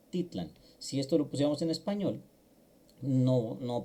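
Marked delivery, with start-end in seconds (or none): 0.1-0.5 Titlan stressed on ti, the second-to-last syllable. Shown as a demonstration. Teacher isolates the stressed syllable for students. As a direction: lean on ti in Titlan. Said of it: "con el acento en la grave".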